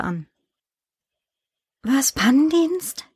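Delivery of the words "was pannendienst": slow, rising, baffled question; baffled phone reply; puzzled surprise. A narrator's reading. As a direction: stretch it out higher in disbelief.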